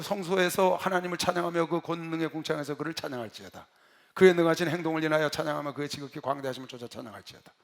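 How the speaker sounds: steady, ringing psalm reading; scripture recitation. Retold or imitated. Preacher reading Psalm 150 aloud to a newcomer, solemn recitation. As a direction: read the psalm out in an even, sustained line.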